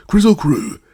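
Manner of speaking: high, loud shout of the words; called out. A narrator's reading. Scraps calling out to the woozy, shouting loudly. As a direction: yell it out to anger him. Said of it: "Then Ojo said".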